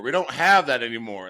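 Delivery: high, loud worried insisting; alarmed dad. Retold or imitated. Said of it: "That's what he kept saying".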